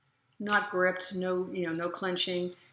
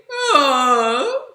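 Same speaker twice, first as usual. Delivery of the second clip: loud, high sobbed moan; complaining sob "oh"; 7 semitones higher, 14 dB louder than usual. Shown as a demonstration. Coach demonstrating sob for singers, complaining wail. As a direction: wail it like a big deep complaint. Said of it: "kind of a deep complaint".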